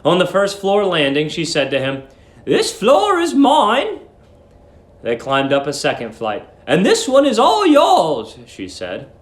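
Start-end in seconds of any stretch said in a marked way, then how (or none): 2.5-4.0 put-on high, sweet old landlady. A narrator's reading. Old landlady cooing at young guest Billy, high and sweet. 6.7-8.4 put-on high, sweet old landlady. A narrator's reading. Old landlady cooing at young guest Billy, high and sweet.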